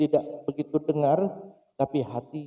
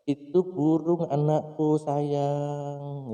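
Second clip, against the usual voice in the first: tender father; much slower than usual. Acted. Loving father answers child.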